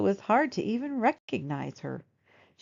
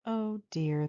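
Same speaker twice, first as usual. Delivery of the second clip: sadly; 4 dB quieter than usual. Acted. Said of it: "the old woman said sadly".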